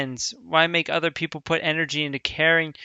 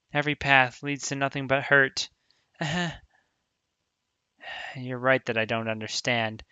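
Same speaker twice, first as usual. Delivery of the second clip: calm read-through of an emotional scene; reading game dialogue; 3 dB quieter than usual. Acted. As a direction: read it through quietly as both friends. Reads visual novel text aloud.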